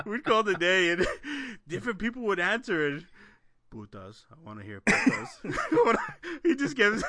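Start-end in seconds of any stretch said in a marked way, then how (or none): 3.7-5.3 flat droning request; monotone voice. Retold or imitated. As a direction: keep it dead level. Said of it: "he's all, like, monotone".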